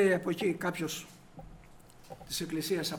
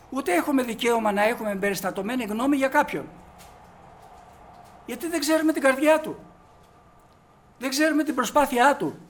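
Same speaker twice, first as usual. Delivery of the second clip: louder, emphatic sermon delivery with stress on έχουμε; preaching; 5 semitones higher, 5 dB louder than usual. Acted. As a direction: drive each line home from the pulpit. Preaching the point loudly.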